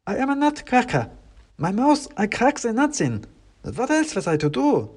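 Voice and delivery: high wooden voice, a touch glum; miserable nutcracker. Acted. Klaus explains his fall to the narrator, glum. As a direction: lament like a stiff little soldier.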